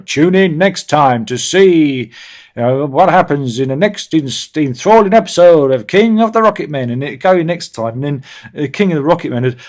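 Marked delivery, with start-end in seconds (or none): 0.0-6.9 put-on old serial announcer. Host imitates the old serial announcer, mock-dramatic and louder. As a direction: boom it like a lightly voiced old newsreel narrator.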